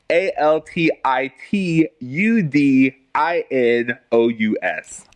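spelling it out. Shown as a demonstration. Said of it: "The correct spelling is".

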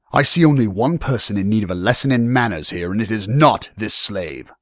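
lordly, emphatic reprimand; stern young lord. Acted. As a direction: rebuke him with firm authority.

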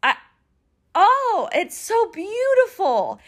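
high, slow, voice catching with emotion; choked up. Real, not acted. To listeners about a rare love, high and near tears. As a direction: near tears, drawing out each word. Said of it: "this is me being a little emotional".

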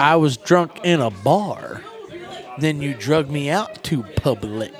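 slow, drawn-out stand-up quote; Ron White. Retold or imitated. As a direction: lightly imitate a comedian, stretching each word. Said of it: "like, Ron White".

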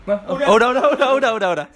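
groggy, startled awake; blurting after dozing off; just woke up. Real, not acted. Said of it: "sorry, ketiduran". (baru bangun tidur)

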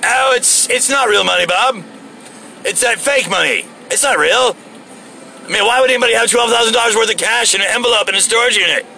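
high, sly con-man voice; fake innocent. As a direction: play innocent, fast and high. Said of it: "I should have been like".

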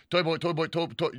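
tongue twister rattled off till it trips; rapid tongue twister. Shown as a demonstration. Host trying the viewer's challenge, rapid repetition. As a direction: repeat it quickly until you stumble. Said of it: "over and over as fast".

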